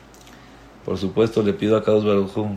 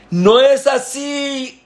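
much higher, slow furious correction; rabbi shouting; 5 dB louder, much slower than usual. Acted. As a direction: shout the cantor down mid-prayer. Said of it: "Y empezó a gritar". (el rabino grita, mucho más agudo y lento)

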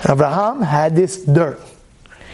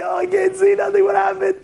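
much higher, shouting confusion; blinded attacker; 11 semitones higher than usual. Pretend. Attacker hit by dirt, shouting in confusion. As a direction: cry out half blind.

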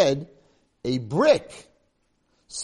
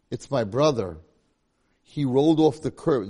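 tearful; 2 semitones higher, 6 dB louder than usual. Acted. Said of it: "With tears ripping down his face".

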